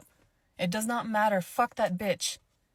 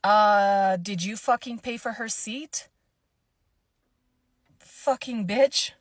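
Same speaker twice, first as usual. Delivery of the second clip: louder, scornful challenge, last words slow; retold angry comeback; 6 dB louder, slower than usual. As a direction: confront her with contempt. Speaker confronts rude lady.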